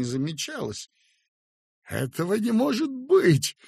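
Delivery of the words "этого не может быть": high, loud cry of disbelief; wail. A narrator's reading. Young doctor cries out over the woman, wailing. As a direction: cry out that it can't be. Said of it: "заговорил я и завопил".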